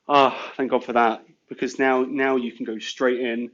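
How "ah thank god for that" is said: a long relieved "ah" leading in; sigh of relief. Retold or imitated. Boss retells hearing of an experienced driver, mildly relieved. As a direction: breathe out the relief, mildly acted. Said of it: "had this big sigh of relief going".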